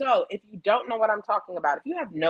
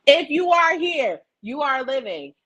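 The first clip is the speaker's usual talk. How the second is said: Queen's line; 5 semitones higher, 5 dB louder than usual. Retold or imitated. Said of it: "I'm gonna say it in the way I be hearing it".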